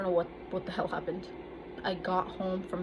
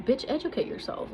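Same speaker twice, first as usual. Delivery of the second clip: higher, louder comeback; 6 semitones higher, 5 dB louder than usual. Retold or imitated. Retold comeback to the bullies.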